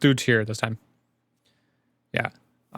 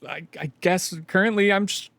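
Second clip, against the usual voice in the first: higher, hesitant mumbling answer; higher voice, unsure and trailing off; sheepish npc; 6 semitones higher than usual. Acted. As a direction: fumble for an excuse.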